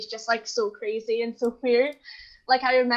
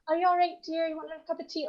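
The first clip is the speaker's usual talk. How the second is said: caring carer voice; 5 semitones higher, 5 dB quieter, faster than usual. Retold or imitated. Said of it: "I'm always going".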